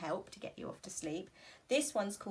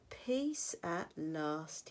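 relieved sigh; 3 semitones lower, much slower than usual. Acted. Bear finally relieved.

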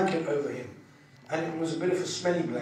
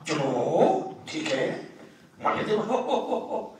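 mimicked phone chatter; much slower than usual. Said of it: "he was like ma-, making really".

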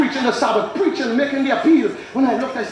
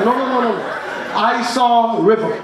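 insistent refusal. Retold or imitated. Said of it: "He said".

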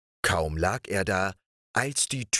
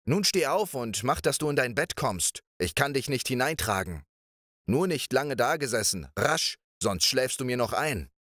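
calling out; 4 semitones higher than usual. Acted. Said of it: "packte sie ihm am Kragen und rief".

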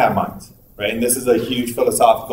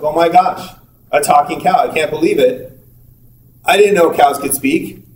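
acted amazement; 2 semitones higher than usual. Acted amazement at talking cow.

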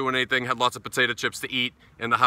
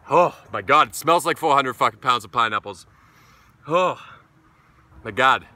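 loud oh my god; 4 dB louder than usual. Real, not acted. Smelling the pineapple beer.

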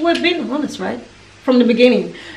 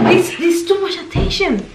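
lightly voiced baby, slightly higher pitch; mildly overwhelmed baby, imitated; baby's imagined protest; 4 semitones higher, 3 dB quieter than usual. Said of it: "She's like".

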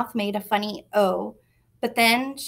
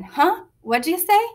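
high, loud mock taunt; 8 semitones higher, 5 dB louder than usual. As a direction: goad him, high and loud. Sister taunts brother.

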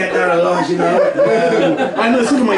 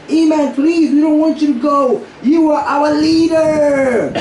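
mock wailing plea; 7 semitones higher than usual. A friend begs him not to leave, in a hammed-up tearful wail. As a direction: ham up a tearful desperate friend. Dude stood up begging.

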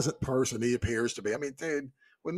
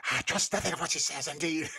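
mock Calor; 2 semitones higher, 3 dB quieter than usual. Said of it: "He's like".

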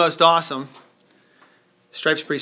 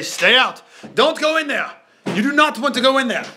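spooky warning; 3 semitones higher than usual. Acted. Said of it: "that we're telling everybody to say".

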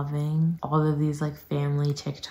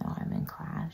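soft, half-whispered reminder; quiet imitation of a polite reminder; retold mild protest; 6 dB quieter than usual. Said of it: "I kept saying".

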